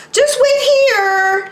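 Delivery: put-on high, curt mom keeping the kid at the door; "Just wait here" pitched high and brisk, stress on "wait"; friend's mom. Friend's mom to sloppy boy at the door, high and curt. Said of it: "she says".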